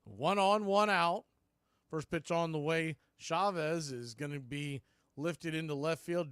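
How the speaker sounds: brisk radio call of the pitch and hit; live play-by-play. Real, not acted. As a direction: narrate the play as it unfolds.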